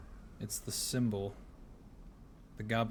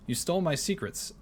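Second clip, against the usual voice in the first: seething, higher and tense; 7 semitones higher, 4 dB louder than usual. Acted. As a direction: hiss it through anger. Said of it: "seethed the secret keeper".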